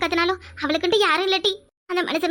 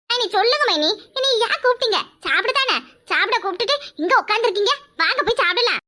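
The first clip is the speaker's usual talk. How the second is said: lightly raised, impatient to eat; eager freeloader; 2 semitones higher than usual. Acted. Sister-in-law impatient to eat, lightly raised. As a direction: hurry them to the table.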